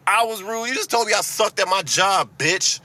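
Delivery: furious disbelief at a customer; incredulous angry comeback; indignant outrage. Retold or imitated. Retold outburst at rude customer.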